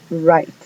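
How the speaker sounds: Right, W unsounded; English word write. Shown as a demonstration. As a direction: say Right as "rait". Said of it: "La W no suena". ("Right" dicho "rait")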